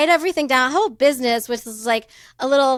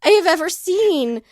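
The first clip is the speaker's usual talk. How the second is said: half-laughing mock disbelief, a bit higher; laughing retold quote; 6 semitones higher than usual. Wife laughing while retelling her reply to her husband. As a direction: tell it through laughter. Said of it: "I was like".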